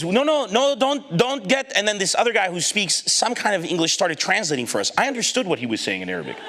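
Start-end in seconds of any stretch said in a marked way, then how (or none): 0.0-1.7 high-pitched flustered protest; mock panicked pleading. Policeman trying to stop the evacuation, flustered. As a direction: imitate a flustered official halting a disaster.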